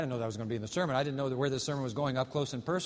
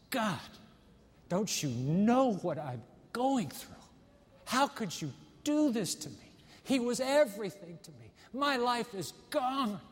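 acted anguished plea, higher toward the end; imitated anguished sobbing; 4 semitones higher than usual. Grieving widow crying out to God in the dark, acted anguish. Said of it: "she begins to sob into the darkness".

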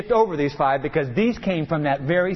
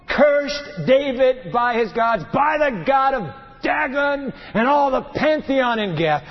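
fiery preaching; 5 semitones higher than usual. Acted. Preacher voicing the cursing.

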